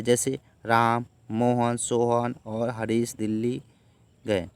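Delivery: brief pause after Ram, Mohan and Sohan, slow list; teacher reads each name with a short stop at every comma. Shown as a demonstration. Teacher showing the class comma pauses, slow list reading. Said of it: "तो इस तरह से, उसके बाद comma लगा सकते हैं".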